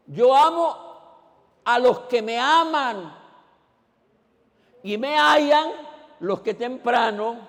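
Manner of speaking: loud, high, slow preaching; fiery pulpit preaching, drawn out; preaching at full force. Acted. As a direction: proclaim each line of the commandment. Preaching Proverbs 8:17.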